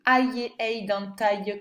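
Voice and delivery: first "Aïe" as "ah-y", then "aïe" as "ay-y"; both sounds contrasted. Shown as a demonstration. Teacher to pupil, contrasting both sounds in one word. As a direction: set "Aïe" open against "aïe" closed. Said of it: "on entend les deux".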